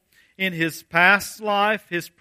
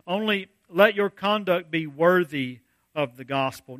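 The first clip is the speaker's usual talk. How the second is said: scripture reading; 2 semitones lower than usual. Acted. Reads verse twenty-seven.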